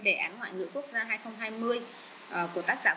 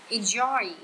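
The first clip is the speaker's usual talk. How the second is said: enJOY, second syllable punched louder; stress on second syllable; 5 dB louder than usual. Shown as a demonstration. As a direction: hit the JOY in Enjoy. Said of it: "nhấn âm hai". (nhấn mạnh âm hai: enJOY)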